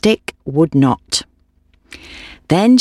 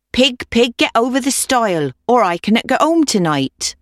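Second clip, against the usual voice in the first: put-on pleading old woman; 7 semitones higher than usual.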